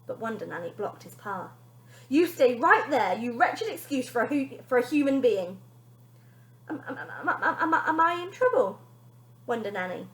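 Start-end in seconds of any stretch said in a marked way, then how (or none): 2.1-5.6 nanny blocking father; stern order. Acted. 6.7-10.1 high, stammering fearful question; frightened father asking; close to tears. Acted. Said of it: "close to tears".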